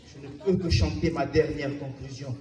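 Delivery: low, soft closing line; subdued declamation. Acted. Poet giving a last conclusion, subdued and low. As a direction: let the verse sink to a close. Resigned close of the verse.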